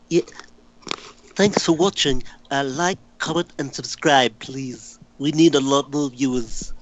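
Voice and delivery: an attempted cartoon character impression, lightly voiced; light, singer-ish character voice breaking into a laugh at the end; Stewie. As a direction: read the sign-off as a mild character impression. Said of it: "Do Stewie".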